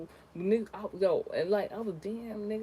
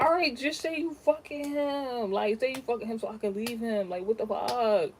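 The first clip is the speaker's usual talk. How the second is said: exasperated demand; 4 semitones higher, 5 dB louder than usual. Retold or imitated. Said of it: "I'm like".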